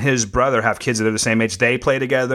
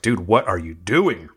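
slow low mock voice; 5 semitones lower, slower than usual. Body voiced as a friend.

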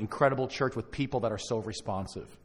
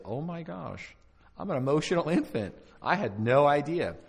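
imitating a stunned self-discovery, pitched up; mock shocked realization; 4 semitones higher than usual. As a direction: voice someone's appalled realization, drawing out the end. Voices people shocked by their assessment.

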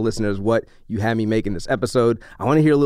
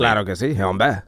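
"Claro que sí, hombre" in a lower, easy Spanish; 5 semitones lower than usual. Shown as a demonstration. Asked if he speaks Spanish, answers in Spanish. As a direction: toss off the Spanish line to prove it. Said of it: "But you can speak Spanish, like, fluently".

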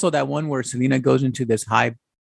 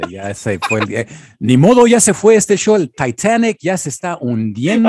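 mock despair; 3 dB louder than usual. Reporter jokes the interview is failing, mock dismay. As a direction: playfully announce the show is sinking.

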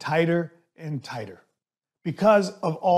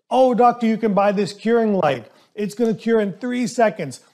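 mock sales pitch; 4 semitones higher than usual. Dentist mocking a sales rep pitching a curing light, in a high eager salesman voice. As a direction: ham up a pushy sales rep promising miracles.

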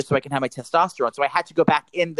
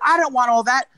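higher, exasperated protest; retold snapping; 8 semitones higher, 3 dB louder than usual. Customer refusing the extra charges, retold snapping. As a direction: re-enact a fed-up refusal. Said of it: "I finally just snapped".

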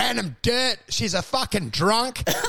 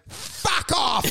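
blunt mock dismissal; 6 semitones higher than usual. Relative rejecting visitor at door.

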